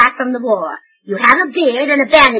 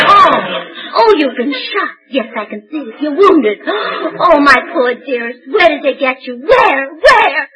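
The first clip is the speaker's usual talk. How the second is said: hammed-up distress over a wound; melodramatic alarm. Wife discovering her soldier is wounded, hammed-up alarm. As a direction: gasp and fuss over him theatrically. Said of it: "You run the entire gamut of emotions in it".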